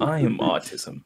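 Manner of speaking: slow, menacing ad voice; mock-ominous slow announcement; imitating ominous commercial narrator. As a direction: intone it like a sinister voice-over. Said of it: "this guy with a deep voice".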